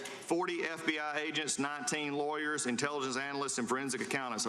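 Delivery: measured pace for a listener who missed it. Real, not acted. Repeats it slowly on request.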